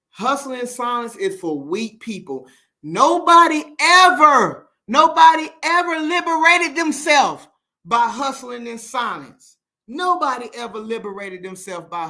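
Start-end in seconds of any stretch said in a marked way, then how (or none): 2.8-9.6 loud, high, slowed preaching; loud call-out to viewers who stay silent; preaching shout. Real, not acted. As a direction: hammer it home like a sermon. Preaching against hustling in silence.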